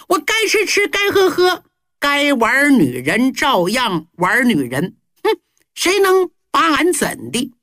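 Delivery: Huhai crowing, pitched high and carefree; gleeful boast. Acted. Spoiled prince to Zhao Gao, gleeful high boast. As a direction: brag like a spoiled prince who fears nothing. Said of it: "胡亥乐了".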